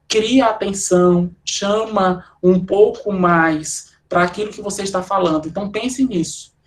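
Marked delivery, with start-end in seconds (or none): 0.1-3.9 spaced-out words with small pauses; palavras espaçadas. Shown as a demonstration. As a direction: leave space between phrases to draw attention. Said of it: "fala as coisas mais devagar, espaçadamente". (falando devagar, espaçadamente)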